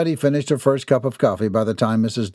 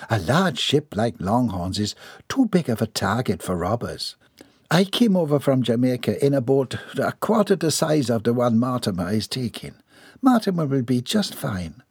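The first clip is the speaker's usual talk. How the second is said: calm lady; 2 semitones higher than usual. Acted. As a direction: soothe her with steady reason. Voices lady in story.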